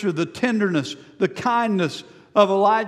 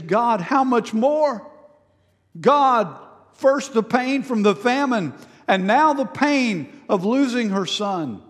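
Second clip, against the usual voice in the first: pained plea; 3 semitones higher than usual. Retold or imitated. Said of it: "Elijah's feeling the pain himself".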